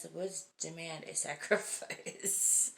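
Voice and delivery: put-on spooky child. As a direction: drag it out like a creepy little prophet. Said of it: "He says".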